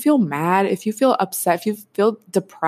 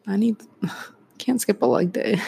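laughing whisper. Real, not acted. Laughs while joking about gym.

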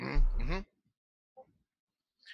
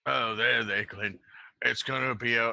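consoling; 5 dB louder than usual. Acted. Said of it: "I'm patting him".

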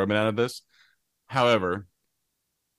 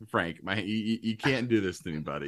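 adrenaline shakes; 2 semitones lower than usual. Real, not acted. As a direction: voice trembling with nerves. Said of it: "my hands are shaking".

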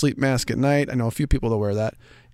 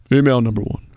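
put-on announcer-style mail voice; 4 dB louder than usual. Shown as a demonstration. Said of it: "let me put my mail voice on".

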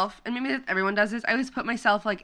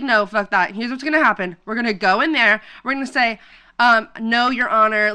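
imitating a worked-up dad laying out the plan; louder, emphatic mock courtroom defiance; dad's defiant spiel; 5 dB louder than usual. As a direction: act out dad rehearsing for the judge. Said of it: "he was, like, doing this whole spiel".

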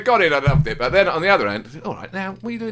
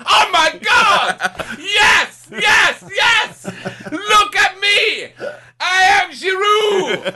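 mock vain striker; 13 semitones higher, much slower than usual. Mocking a vain striker to his co-host, hammed-up and shouting. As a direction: crow about yourself like a vain footballer. Imitating Giroud in a mirror.

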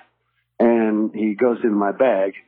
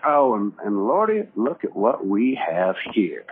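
smug sheriff slowly gloating over the bag; gloating cop; slower than usual. Retold or imitated. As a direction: savor the find like a smug sheriff. Cop gloating over found cocaine.

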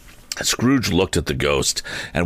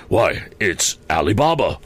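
delighted cry of recognition, only lightly raised; Scrooge's understated joyful outburst; ecstatic exclamation; 2 semitones higher than usual. Acted. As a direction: exclaim it with mild, wondering ecstasy. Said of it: "Scrooge exclaimed in ecstasy".

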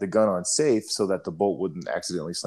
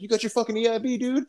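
high, hyped-up congratulation; retold sergeant, excited; faster than usual. Sergeant telling a soldier he earned his badge, excited. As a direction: shout it like great news for a buddy. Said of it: "He's like".

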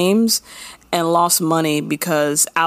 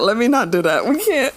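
ordinary talk

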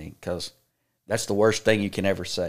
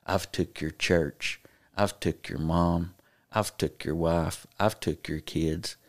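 possessed; slower than usual. Retold or imitated. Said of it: "whispered in my ear and said".

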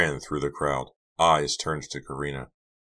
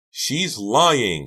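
high, loud desperate cry; 8 semitones higher, 7 dB louder than usual. A narrator's reading. Karina accuses Delia before everyone, crying out. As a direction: shout the denial desperately. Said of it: "Karina cried again".

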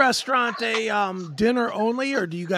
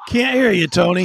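calling out; 2 semitones lower, 8 dB louder than usual. Real, not acted. Calling to host with lost audio.

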